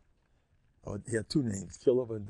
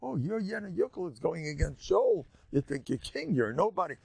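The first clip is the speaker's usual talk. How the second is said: mocking put-down, pitched up at the start; making fun; 6 semitones higher than usual. Miser belittling David to his messenger, mocking jeer. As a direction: act out a jeering dismissal. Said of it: "he made fun of David".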